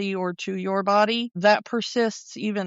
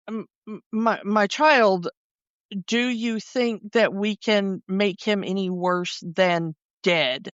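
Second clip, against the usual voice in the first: put-on slow, patronizing put-down to a child; condescending doctor. Doctor talking down to his colleague, slow and patronizing. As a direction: talk down to her slowly, like a child. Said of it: "the undertone of that is like".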